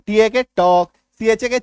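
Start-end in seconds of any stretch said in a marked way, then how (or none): 0.6-0.9 टॉक with no L before the K; silent L. Shown as a demonstration. Teacher reading talk after cutting the L, silent L. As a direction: say टॉक, open vowel straight into K. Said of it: "अब पढ़ो इसको".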